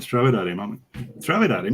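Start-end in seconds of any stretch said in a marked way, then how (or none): 1.2-1.7 higher-pitched, disbelieving question; incredulous echo. Retold or imitated. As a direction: echo the order back in mock disbelief.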